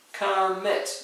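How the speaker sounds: Commit broken into two syllables, com, mit. Shown as a demonstration. Teacher counting out syllables for the class, Commit split in two. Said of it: "Yes, two syllables".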